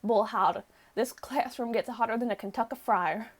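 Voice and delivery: lightly put-on country accent; folksy country accent, lightly done. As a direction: give it a touch of Kentucky country accent. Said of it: "supposed to be a country accent".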